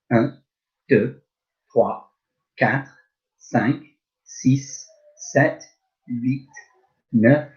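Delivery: slow, evenly spaced French counting; counting aloud for class. Shown as a demonstration. Teacher counting in French for pupils to echo. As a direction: count steadily so pupils can repeat. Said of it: "Let's just do that together".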